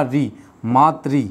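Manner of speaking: री, then मातृ slowly, ending in the same "ree"; slow teacherly री, मातृ with a clear "ree"; pronunciation demo. Shown as a demonstration. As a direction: sound out "ree", pause, then मातृ as "maa-tree". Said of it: "उच्चारण हमेशा री के रूप में होगा".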